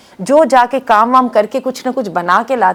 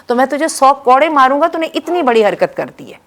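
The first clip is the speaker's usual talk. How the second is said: retold anger; 3 semitones higher than usual. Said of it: "بہت ناراض ہو گئے اور کہا".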